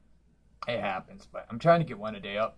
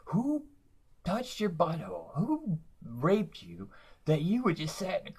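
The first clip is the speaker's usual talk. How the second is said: a mock high-pitched tirade, slowed; mild hammed-up outrage; retold rant; 5 semitones higher than usual. Comic yelling at heckler, higher mock outrage. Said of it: "just went off and went off".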